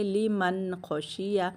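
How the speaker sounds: लिमन खशिया with the noon of लिमन kept still; slow recitation, noon sounded clearly; noon held steady. Shown as a demonstration. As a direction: read लिमन खशिया slowly, noon unmoved. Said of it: "नून को हिलाएंगे नहीं, यहाँ पर जमा के रखेंगे".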